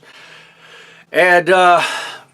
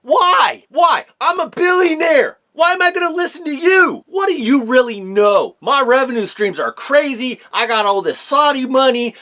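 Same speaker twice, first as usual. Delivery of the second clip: much higher, scoffing billionaire boss voice; Vince McMahon; 8 semitones higher than usual. Pretend. Boss mocks fan holding chili, in much higher scoffing voice. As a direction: play the smug tycoon brushing off a critic, pitched way up. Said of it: "You, Vince McMahon, and I'm gonna be that person".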